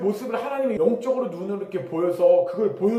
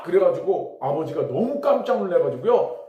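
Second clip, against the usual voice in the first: usual speaking voice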